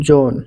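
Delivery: "জোন" with a long o; model pronunciation. Shown as a demonstration. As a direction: hold the o in "জোন". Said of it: "যেমন দেখেন ও এইচ".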